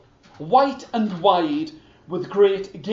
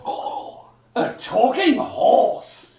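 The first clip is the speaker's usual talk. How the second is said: breathy, slow amazed oh; awed whisper; 6 semitones higher, slower than usual. Acted. The king marvels at the horse in a breathy hush. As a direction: marvel in a hushed voice.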